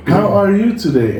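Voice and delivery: a light imitation of the radio teacher. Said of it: "they go".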